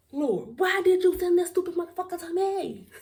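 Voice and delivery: high, loud wail to heaven; loud, high-pitched "why me" lament; exasperated plea. Acted. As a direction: cry out in comic despair, pitch way up. Mock plea to the Lord.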